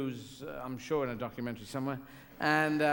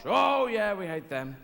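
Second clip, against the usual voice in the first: a louder, higher eager yes; loud mock audience reply; 4 semitones higher, 5 dB louder, slower than usual. Audience to comedian, loud mock cheerful agreement. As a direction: cheerfully admit hating them. English audience voiced answering.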